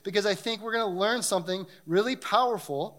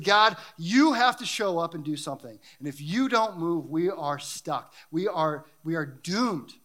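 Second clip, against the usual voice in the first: emphatic retold plea to God, slowing down; imitating a desperate appeal to God; crying out in prayer. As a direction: act out an urgent prayer, landing heavily on the last words. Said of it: "when it says crying out".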